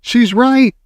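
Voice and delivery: high, loud agreeing cry. A narrator's reading. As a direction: shout your agreement. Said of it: "cried another voice".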